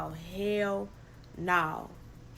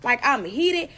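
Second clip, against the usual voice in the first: higher, laughing, worked-up retelling; laughing outrage; 6 semitones higher, 4 dB louder than usual. Retold or imitated. Calling everybody about the bleach, laughing outrage, higher. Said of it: "I'm like".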